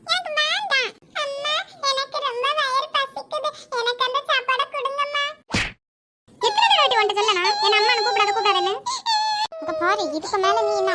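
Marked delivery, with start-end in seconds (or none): 0.1-5.2 put-on higher, slow child's plea; pleading child. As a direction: beg like a hungry little girl. Stepdaughter begs for food. (பசியுடன் கெஞ்சும் குழந்தை)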